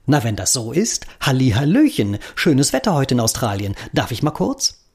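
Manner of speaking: happy chirpy hello; cheerful call. Acted. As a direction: greet the human merrily. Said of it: "ruft fröhlich".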